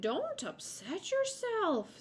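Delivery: slow, high, soothing squirrel; comforting high-pitched storybook voice. A narrator's reading. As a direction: reassure a worried mother, drawn out. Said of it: "in a comforting voice".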